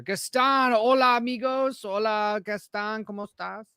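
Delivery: Spanish greeting in a heavy American accent. Shown as a demonstration. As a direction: say it like a gringo tourist, American accent. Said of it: "My terrible American accent".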